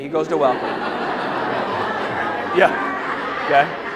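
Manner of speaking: slow, breathy laugh through the words; slowed, giggling repeat. Shown as a demonstration. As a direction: say it with a knowing laugh.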